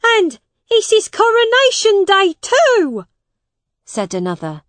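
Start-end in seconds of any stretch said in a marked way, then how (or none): 0.0-3.1 high, loud heckle from an onlooker; second man shouting, pitched up; crowd shout. A narrator's reading. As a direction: call it out over the crowd. Another man in crowd calls out.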